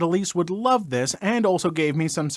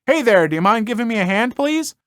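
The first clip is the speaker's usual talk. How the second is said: calling over; 4 semitones higher than usual. Retold or imitated. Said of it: "yells over".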